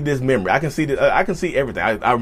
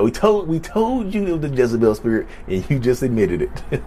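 mocking viewers voice.

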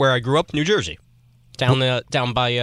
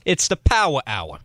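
slow, weak mock New York accent; slower than usual. Shown as a demonstration. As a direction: try a New York accent and barely manage. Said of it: "your fake New York accent".

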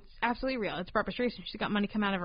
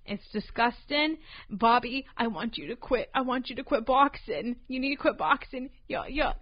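put-on New England boxer's wife; New England accent, pretend nagging; mock New England accent.

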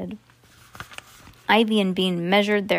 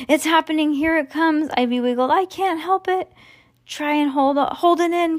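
higher, rising alarm as the fit comes on; mock panic; 7 semitones higher than usual. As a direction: play up the silly emergency. Kids panicking over spoiling fit.

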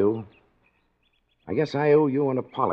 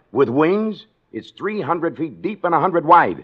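scoffing; 5 semitones higher, 5 dB louder, slower than usual. Acted. Scoffing at the bridge idea.

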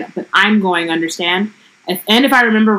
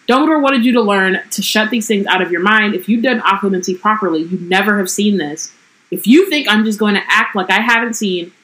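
lightly voiced book reading of Ron and Hermione; story reading; 3 semitones higher than usual. A narrator's reading. Podcaster reading the book passage to her co-host, lightly voiced. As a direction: read the quarrel out, evenly.

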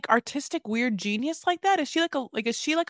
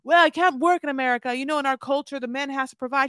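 husband's excuse; 3 semitones higher, 4 dB louder than usual. Retold or imitated. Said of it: "Wayne throws everything at her".

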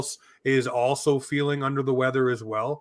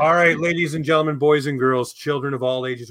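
ringmaster; 4 dB louder than usual. Acted. Host opens show like ringmaster.

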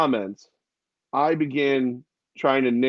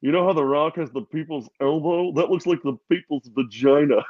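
Yale impersonation. Retold or imitated. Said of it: "I'll do the impersonation".

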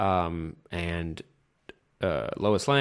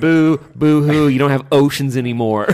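fake crying; 5 semitones higher, 9 dB louder than usual. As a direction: whine it like a crybaby. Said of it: "You fucking baby".

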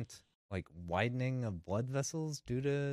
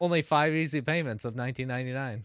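home shopping host; 3 dB louder, faster than usual. Pretend. Joking infomercial pitch for invention.

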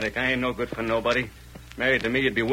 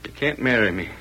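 much softer, low, resigned; quiet hopelessness to his girl; resigned despair; 6 semitones lower, 6 dB quieter than usual. Acted. Shad giving up on marriage.

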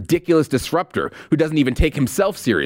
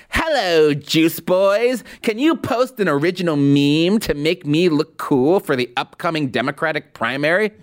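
Mary Poppins voice. Pretend. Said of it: "gotta do it in the Mary Poppins voice".

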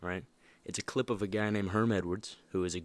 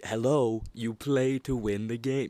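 mock coach yell; 3 semitones higher, 4 dB louder, slower than usual. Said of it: "yelling at this person".

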